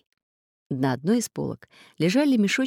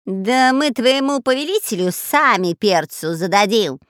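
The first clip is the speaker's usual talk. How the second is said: loud, cocky robber retort; defiant shout; 4 semitones higher, 4 dB louder than usual. Acted. Spy shouting back at the parrot. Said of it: "крикнул шпион Дырка".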